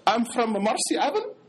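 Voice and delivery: put-on Arab-accented English, rising at the end; mock Arab accent. Convert telling where he's from, in a mock Arab accent. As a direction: imitate a Brooklyn man's borrowed Arab accent. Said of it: "he don't talk like this".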